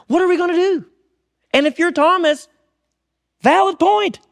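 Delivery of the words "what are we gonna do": pleading disciples. Acted.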